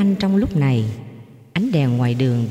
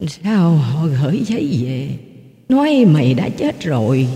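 tearful. A narrator's reading. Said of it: "mếu máo nói".

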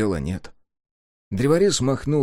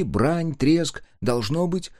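ordinary delivery

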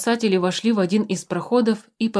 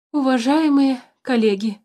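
calling out; 6 semitones higher, 4 dB louder than usual. A narrator's reading. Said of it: "отдышавшись, позвал".

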